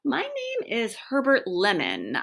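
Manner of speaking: lightly put-on posh English accent. Herbie calling the museum in a lightly put-on posh English accent. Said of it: "I say slowly, putting on the posh voice".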